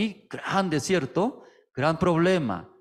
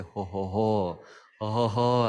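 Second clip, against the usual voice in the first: imitating the pastor's easy ho-ho laugh; lightly voiced, cheerful chuckle; mock jolly laugh. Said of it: "se ríe".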